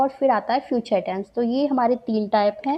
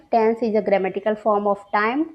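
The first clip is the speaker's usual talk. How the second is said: very slow, deliberate definition; dictation pace; 2 semitones lower, much slower than usual. Shown as a demonstration. Teacher to students, dictating the definition very slowly. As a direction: read it out slowly for students to note down. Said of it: "कह सकते हैं कि".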